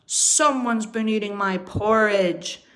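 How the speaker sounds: loud mock roar; papa bear roaring. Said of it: "roared Papa Bear".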